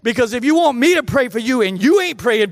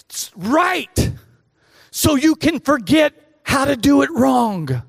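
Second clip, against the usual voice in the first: slow, emphatic coach's lecture, pitched up; mildly raised, drawn-out coaching voice; imitated coach yelling; 4 semitones higher, slower than usual. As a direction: drive each phrase home like a coach correcting his team. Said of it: "He's yelling at him".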